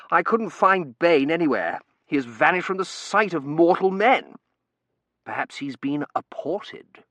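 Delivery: high, loud, slow declaiming; theatrical young man. Acted. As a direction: announce it with grandiose flourish. Terence's voice.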